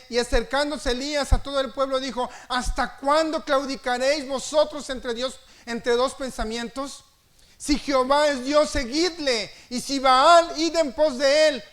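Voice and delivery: Elijah's challenge thundered from the pulpit; fiery scripture reading. Acted. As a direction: hurl the prophet's question at the crowd. Preaching scripture at full force.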